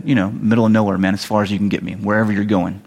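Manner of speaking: low, offhand mock-Jonah reply; resigned fugitive. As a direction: play a runaway who doesn't care where. Acts Jonah answering the sailors.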